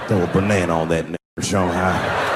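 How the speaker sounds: low redneck voice. Pretend. Banana thrower continues.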